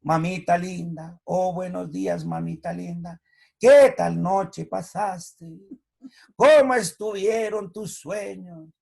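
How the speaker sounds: slow, drawn-out flattering greeting; butter up mamita, stretching every word; loud, slow, pleading flattery; syrupy sweet-talk to mom. Retold or imitated. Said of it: "Imagínense que uno hablara, yo todos los días saludara".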